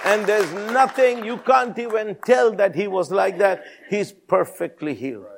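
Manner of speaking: high-pitched, mildly overwrought mother's report; imitating an overcome mother, lightly acted; retold tearful hysteria. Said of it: "she is hysterical. She's crying".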